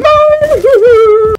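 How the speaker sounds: sudden high yell of dismay; shouting. Real, not acted. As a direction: scream it out in shock. Teammate dies in clutch.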